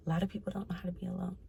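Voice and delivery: soft whispered aside; whispering. Real, not acted. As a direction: drop to a breathy whisper. Whispered aside about being alone.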